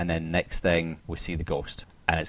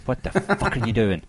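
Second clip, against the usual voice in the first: mild mock yell, higher pitch; exasperated viewer yelling at the screen, held back; half-shouted disbelief, pitched up; retold screaming; 5 semitones higher than usual. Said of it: "you're screaming out and going".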